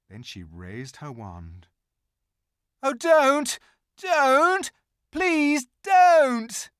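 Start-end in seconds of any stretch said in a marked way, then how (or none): 2.8-6.7 high, loud, pleading cry; desperate shout. Acted. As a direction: beg her to stop, shouting. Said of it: "shouted Edmund".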